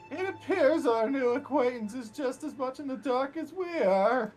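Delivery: high voice, measured and slow; high, slow NPC voice. Acted. Same NPC voice again.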